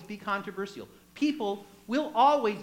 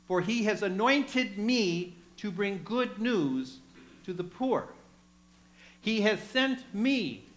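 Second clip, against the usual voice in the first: scripture reading. Acted. Preacher reading Isaiah to the congregation, solemn. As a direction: read the prophet's words with weight. Reads Isaiah scroll aloud.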